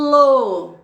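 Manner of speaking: "lo" said loud and clear on its own; syllable demo. Shown as a demonstration. Teacher showing mouth moves to pupils, loud and clear. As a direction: call out "lo" distinctly. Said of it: "Quantas boquinhas eu fiz".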